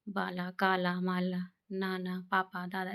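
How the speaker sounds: बाला, काला, माला with long 'aa'; long 'aa' demo. Shown as a demonstration. Teacher giving examples of आ, long 'aa' in बाला and काला. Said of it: "इस तरीके से आ का उच्चारण".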